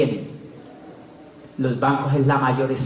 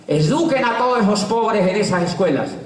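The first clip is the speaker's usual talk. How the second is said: tono de mando; 6 semitones higher than usual. Retold or imitated. Gobierno ordena educar a los pobres.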